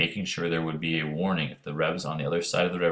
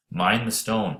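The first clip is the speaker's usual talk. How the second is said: a light call across the water, a touch higher; 4 semitones higher, slower than usual. Acted. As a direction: warn him as you throw. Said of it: "the boy called".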